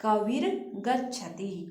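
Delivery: कबीर गच्छति read slowly as one phrase, the र of कबीर running into गच्छति; slow, smooth recitation of कबीर गच्छति; teacher reading कबीर गच्छति slowly and joined. Shown as a demonstration. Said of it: "यहाँ पे र हो जाएगा".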